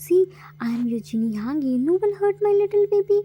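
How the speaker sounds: soothing whisper. Acted. Comforting a crying boy.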